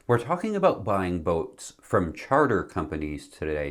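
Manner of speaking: numb face after dental surgery; numb from the dentist. Real, not acted. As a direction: talk through a numb mouth. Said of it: "my face is numb".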